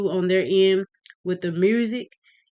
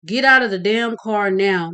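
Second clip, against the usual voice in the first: put-on loud barked order at the boy; officer yells; 2 semitones higher, 5 dB louder than usual. Officer yelling at Sean to get out. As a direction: yell the order, hard and angry. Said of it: "the officer on Sean's side yells".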